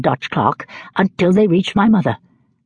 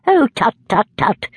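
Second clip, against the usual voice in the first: higher, hurried tut-tut of a stern aunt; flustered old lady tutting in a hurry; 7 semitones higher than usual. A narrator's reading. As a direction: hush the crying quickly and awkwardly. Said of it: "said Miss Betsy in a hurry".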